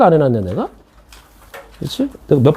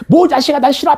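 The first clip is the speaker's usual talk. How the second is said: mock hurt teasing; 8 semitones higher than usual. Teacher's playful retort to student.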